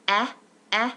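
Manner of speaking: eh, eh held as a bare vowel; isolated vowel demo. Shown as a demonstration. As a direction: sound out eh on its own. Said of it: "It sounds like".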